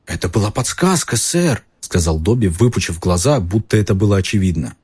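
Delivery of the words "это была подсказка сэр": high elf voice, wide-eyed; obvious to a small creature; house elf. A narrator's reading. Dobby voice.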